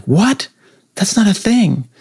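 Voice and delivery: high-pitched incredulous objection; mock disbelief. Imagined listener rejects the pronunciation, mock incredulous. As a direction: balk at it, pitch jumping way up. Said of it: "you can be like".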